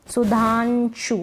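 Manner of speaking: सुधांशु slowed, the nasal held as a clear n before शु; sounded-out half न. Shown as a demonstration. Teacher showing learners the half न, सुधांशु slowly sounded out. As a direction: dwell on the n in सुधांशु, su-dhaan-shu. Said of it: "न का हो रहा आधे".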